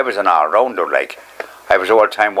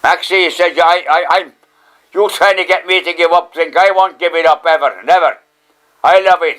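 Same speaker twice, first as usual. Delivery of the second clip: put-on defiant drunk woman; 7 semitones higher, 3 dB louder than usual. Catherine's defiant quote, raised voice.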